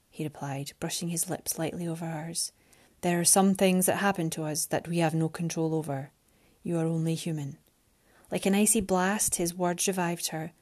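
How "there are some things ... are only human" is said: low, gentle male voice; Alexander's voice. Acted. Alexander tenderly consoles Mariana.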